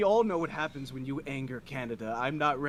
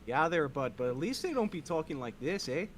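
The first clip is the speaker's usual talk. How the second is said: mock Canadian accent. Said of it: "your accent".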